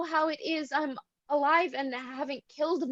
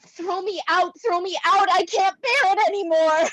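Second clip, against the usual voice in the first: despairing; 3 semitones higher, 5 dB louder than usual. Acted. Irina begs in despair.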